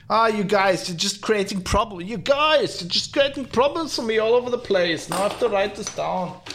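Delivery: playful complaint in a put-on Indian accent; mock Indian accent. Host teasing listeners in a mock Indian accent. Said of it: "what accent that was. Indian?".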